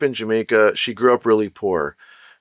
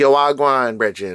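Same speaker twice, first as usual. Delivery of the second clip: put-on casual, slangy Jamaican patois accent. Explaining how you couldn't sound answering business calls, put on a Jamaican accent. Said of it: "have the Jamaican accent, be like".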